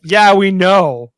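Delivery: loud, drawn-out mock "obviously"; imitated chorus of knowing friends; unimpressed reply.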